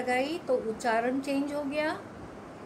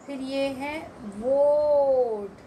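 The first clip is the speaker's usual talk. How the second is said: slow reading; 4 dB louder, much slower than usual. Shown as a demonstration. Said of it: "teacher reading word list".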